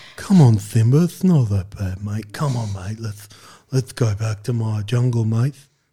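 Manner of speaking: drunken character voice, acted as if drinking. Imagining a spin-off voiced by a drunk Ben Mendelsohn, Ben Mendelsohn impression. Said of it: "That's my Ben Mendelsohn".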